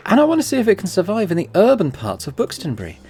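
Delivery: lightly voiced Eastern European accent. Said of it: "doing a Russian accent for this guy".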